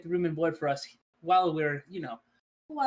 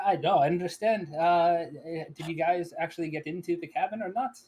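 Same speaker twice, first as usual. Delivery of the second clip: louder, pushing to be heard over the room; raised voice; 3 semitones higher, 4 dB louder than usual. Acted. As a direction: raise your voice to cut in. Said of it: "I'll raise my voice at this point".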